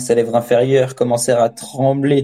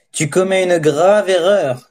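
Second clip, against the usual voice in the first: higher-pitched, menacing warning; snarling threat; 6 semitones higher than usual. A narrator's reading. Extortioner to the farmer who came empty-handed, snarling threat. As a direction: warn him through a curled lip. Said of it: "grinçai-je, la lèvre troussée".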